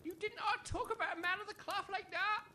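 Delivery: soft, meek objection; timid protest. Acted. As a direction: dare to object, barely above a murmur.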